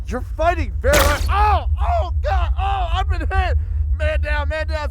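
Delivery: loud high frantic yelling; high, loud hammed-up panic; panicked shouting. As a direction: cry out as if hit. Bystander hit in the fight.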